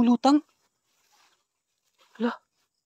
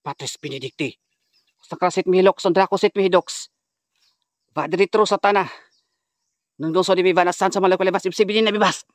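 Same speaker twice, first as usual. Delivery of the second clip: exorcism incantation; 3 semitones higher than usual. Real, not acted. Healer recites an oration against demons, forceful incantation.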